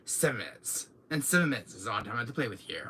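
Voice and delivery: lightly voiced smug villain; Wesker impression. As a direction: rattle off a smug threat. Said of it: "Doing my Wesker thing".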